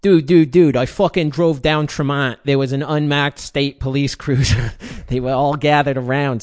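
loud, hammed-up Boston accent reading a cop's words. Reading a cop's bodycam quote in Boston accent. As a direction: read it like a Boston guy bragging, loud. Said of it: "read this one with the Boston accent".

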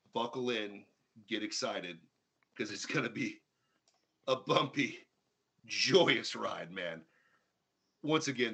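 hyped announcer intro, big and dramatic; frantic mock sports commentary. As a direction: pump up the crowd like a ring announcer. Hype-man show intro.

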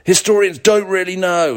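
over-the-top celebrity voiceover teasing a mystery; excited voiceover. Retold or imitated. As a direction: sell the mystery like a breathless documentary voiceover. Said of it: "super high octane, really excited, uh, maybe celebrity voiceover person".

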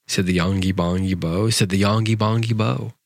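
measured, rhythmic storybook verse; poem reading. A narrator's reading. Host reads a nonsense poem for younger listeners, rhythmic recital. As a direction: read nonsense verse aloud, leaning into the rhyme.

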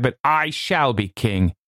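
high, grandiose proclamation; fevered, high-pitched declaiming; impassioned cry. A narrator's reading. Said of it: "I cried".

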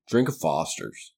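put-on slow Australian accent pitch line; mock Australian ad. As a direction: sell the beer in a fake Australian accent. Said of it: "I can't do an Australian accent".

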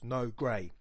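"no grey" as two weighted beats; two stressed syllables. Shown as a demonstration. Teacher repeating the spondee example, "no grey" with both words stressed. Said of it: "that's two stressed syllables".

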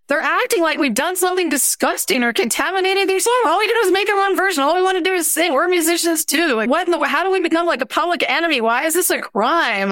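pleading their case in an incredulous rush; indignant protest. Retold or imitated. Rappers defending their song to an interviewer, indignant.

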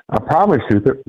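talking through a burp; words pushed out around a burp. Real, not acted. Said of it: "Sorry, I had to burp".

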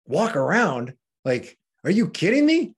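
mock disbelief, rising high; incredulous. Patient answering his nurse's advice to walk, incredulous. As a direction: play a patient balking at an absurd order.

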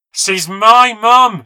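slow, high-pitched scream of rage; furious scream. Acted. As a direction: scream it like a child stamping in a tantrum. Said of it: "she screamed, stamping her feet".

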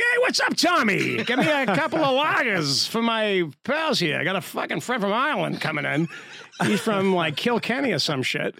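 put-on high, hearty Southie greeting in Boston accent. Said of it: "code switching is, like, I hear this".

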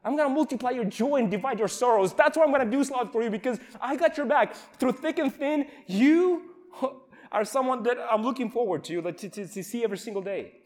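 building to an eager high promise; swelling into a heartfelt vow of loyalty; fervent friend's promise. Retold or imitated. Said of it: "people will come alongside me and like".

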